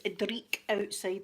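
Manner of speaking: slow, savouring dreek outside; drawn out. Shown as a demonstration. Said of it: "That just means it's rainy and horrible".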